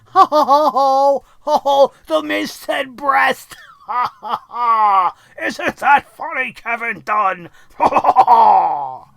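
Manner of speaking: loud, high hammed-up guffaw; hammed-up shouting laugh; mock laughter. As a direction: cackle like a juvenile at a dirty pun. Mocks Miz laughing at pun.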